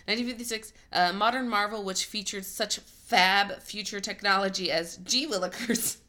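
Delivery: hammed-up 1950s newsreel voice; old-timey announcer. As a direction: read it like a golly-gee ad man. Reading an old-timey article.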